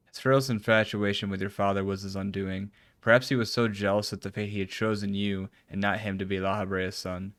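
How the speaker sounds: even, measured read of formal dialogue; reading game dialogue. Acted. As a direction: read the character's lines evenly, lightly dramatised. Reads game dialogue aloud.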